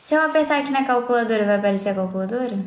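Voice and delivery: normal talking voice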